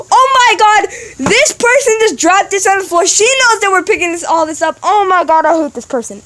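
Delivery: retold exasperated inner rant; inner outrage. Kid silently fuming at the girl who dropped trash, retold exasperation.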